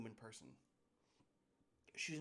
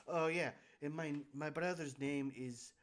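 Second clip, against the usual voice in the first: boss. Acted. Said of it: "She says".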